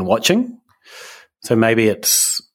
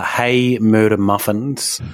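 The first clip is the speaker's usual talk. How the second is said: slow quote; much slower than usual. Shown as a demonstration. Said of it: "read slowly as search term".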